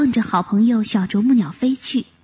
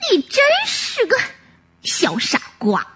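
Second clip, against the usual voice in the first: displeased; 7 semitones higher than usual. Acted. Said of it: "小野鸭不满意地说".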